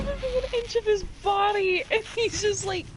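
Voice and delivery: high, incredulous and barely holding it together; rushed high start, dragging out the end; crying with laughter. Real, not acted. Player describing the frozen character's sway, crying with laughter. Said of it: "I'm crying".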